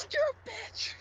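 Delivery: a sly whispered jab; mocking whisper. Real, not acted. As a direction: hiss the insult under your breath. Insult dropped as an aside.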